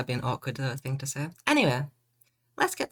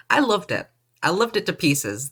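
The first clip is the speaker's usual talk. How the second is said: much higher and louder fake rave about "loved"; mock gushing; 4 semitones higher, 3 dB louder than usual. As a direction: gush it, clearly not meaning it. Mock praise of last game.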